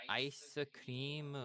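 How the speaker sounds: ice cream as aisu kuriimu; Japanese-style ice cream. Shown as a demonstration. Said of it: "Say ice cream".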